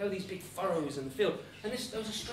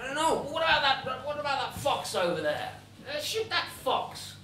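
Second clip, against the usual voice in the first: raised, lively voice casting about for an idea; acted casual suggestion; 5 semitones higher, 4 dB louder than usual. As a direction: toss out suggestions brightly. Devil picks a target for Hans.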